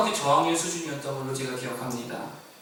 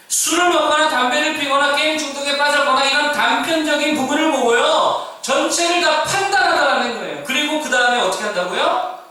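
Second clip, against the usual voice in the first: higher and louder, hammering each charge home; full-force preaching; 10 semitones higher, 6 dB louder than usual. Acted. Pastor rebuking the church's insiders, full-force preaching. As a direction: preach it hard, word by word.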